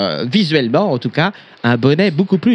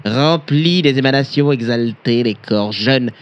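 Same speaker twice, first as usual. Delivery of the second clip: mock solemn reading; 2 semitones lower than usual. Reading the old book aloud.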